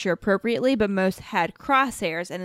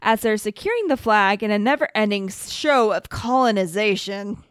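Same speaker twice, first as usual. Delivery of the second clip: radio broadcaster voice. Acted. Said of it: "your nineteen sixties radio broadcaster voice".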